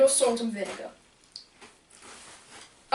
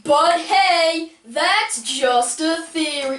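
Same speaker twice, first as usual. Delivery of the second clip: catchphrase delivery; 4 semitones higher, 3 dB louder, much slower than usual. Pretend. Catchphrase quote, slowed.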